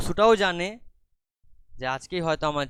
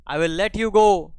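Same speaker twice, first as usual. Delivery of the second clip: stern offer; 7 semitones higher, 11 dB louder, much slower than usual. Acted. Inspector's offer.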